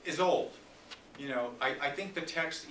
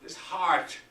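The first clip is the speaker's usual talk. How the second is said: loud, higher threats building then faltering; raging Lear; 5 semitones higher, 9 dB louder than usual. Acted. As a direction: roar the threats, then let grief crack through.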